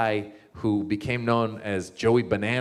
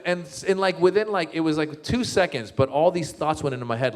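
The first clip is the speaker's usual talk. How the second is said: usual speaking voice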